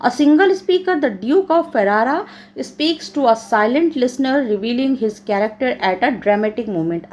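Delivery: measured, slow English read-out; slow classroom reading; reading aloud. Acted. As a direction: read the study notes out slowly, phrase by phrase. Reads model answer aloud.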